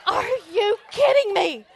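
yelling over the engines; loud incredulous shout. Retold or imitated. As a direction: shout it to be heard over the noise. Shouting at loud truck show.

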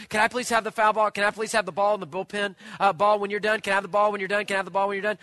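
fast, repetitive begging, imitated; pestering kid. Little kid begging the catcher for a ball, pestering. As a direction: nag like a little kid, rattled off.

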